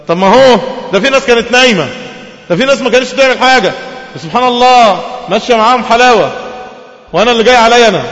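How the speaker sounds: high, loud indignant complaint; loud, high resentful grumble; aggrieved complaint. Acted. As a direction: protest the unfairness loudly. Complaining worshipper voiced.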